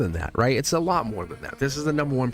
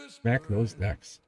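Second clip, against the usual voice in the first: laughing repeat; much slower than usual. Acted. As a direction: chuckle the words out slowly. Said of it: "Mm-hmm, right?".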